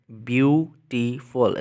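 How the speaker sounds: ब्यूटीफुल drawn out slowly, each syllable separate; slow syllable count. Shown as a demonstration. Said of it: "इसमें three syllables हैं".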